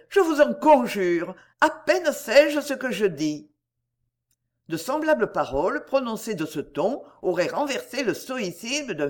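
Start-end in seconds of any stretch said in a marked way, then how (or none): 0.1-3.5 high, louder, slowing plea; tearful pleading. A narrator's reading. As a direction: implore him, hardly knowing what she says. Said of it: "fondant en larmes".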